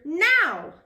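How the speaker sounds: shouted command. Acted. Captain hurrying his crew, shouting. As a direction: snap the order. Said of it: "shouted Captain Firebeard".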